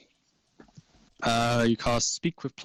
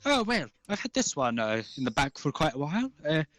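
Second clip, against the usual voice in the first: gnome shopkeeper; 3 semitones higher than usual. Acted. Gnome offers rare book.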